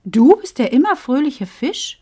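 puzzled, rising on immer; confused question. Acted. Bo asks the fish, puzzled and rising. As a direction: Bo confused by the fish's name. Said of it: "fragte Bo völlig verwirrt".

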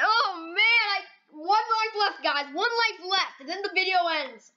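high-pitched groaning lament, easing down by the end; dismayed whine. Real, not acted. Warning viewers only one life is left, dismayed whine.

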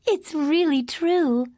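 gracious princess greeting the hero, sweet and even; lightly voiced storybook princess; Princess Jasmine voice. Jasmine greeting Aladdin, a gentle princess voice.

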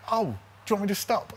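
high, quick, obliging question; lightly acted amiable query; lovely, obliging. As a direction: imitate a polite, accommodating offer. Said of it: "he was lovely".

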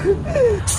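soft, high falling giggle; short quiet titter. Acted. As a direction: let out a small high laugh. Light laugh between characters.

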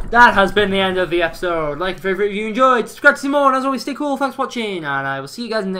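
loud, high-pitched outro rattled off to fans; hyped sign-off. Real, not acted. Gamer ending the episode for viewers, hyped and loud. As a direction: belt out the outro with big energy.

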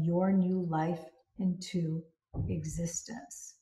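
soothing guided visualization; guided meditation. Acted. Leads a meditation.

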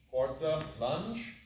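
"quarta" then "lunge" called out, lunge rising; called fencing commands. Shown as a demonstration. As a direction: call each move as you do it. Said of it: "my action now becomes".

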